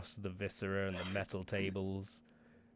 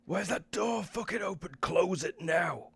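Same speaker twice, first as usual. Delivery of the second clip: higher, louder shouted order; 11 semitones higher, 7 dB louder than usual. Acted. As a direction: bark the order across the room, slowing at the end. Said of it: "turn and shout over".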